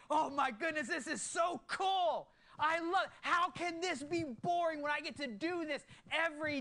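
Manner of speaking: loud, high, thrilled exclaiming; gushing with wonder; excited gush. Retold or imitated. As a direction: burst out with joy at how cool it is. Excited retelling of God talk.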